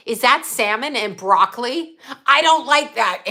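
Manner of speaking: mock his fussy dinner complaint; imitating picky son. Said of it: "he would go".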